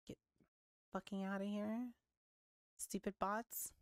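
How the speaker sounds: ordinary talk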